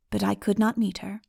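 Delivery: usual speaking voice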